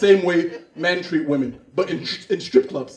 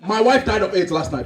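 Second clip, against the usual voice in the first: African man brushing off his grief; mock-solemn African accent; 4 dB quieter than usual. Widower tells his brother not to worry, African accent. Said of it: "Two Africans that haven't seen each other".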